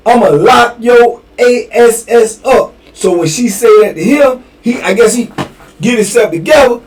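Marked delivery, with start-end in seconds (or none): 0.1-2.7 irritated warning. Retold or imitated. Female CO warns inmate.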